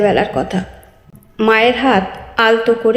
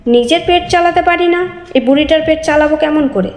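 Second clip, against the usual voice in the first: higher, insolent retort, a bit fast at times; sneering reply; 5 semitones higher than usual. Acted. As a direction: talk back with a contemptuous sneer. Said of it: "মুখ বাঁকিয়ে উত্তর দিল".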